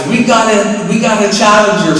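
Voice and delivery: high-pitched barker's announcement; announcing to a crowd. Retold or imitated. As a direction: call it out to the whole bar. Restaurant barker announces challenger to bar.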